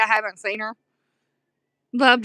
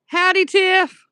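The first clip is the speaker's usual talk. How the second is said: higher, bright-eyed hello; cheery howdy; 7 semitones higher, 3 dB louder, slower than usual. Real, not acted. Greeting her cousin Tiff on the live, a cheery high howdy. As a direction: sing out a friendly howdy.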